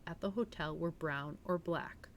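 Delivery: steady read-aloud narrator voice; calm audiobook reading; story narration. A narrator's reading. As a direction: read the novel to your listeners. Reads mystery novel aloud on stream.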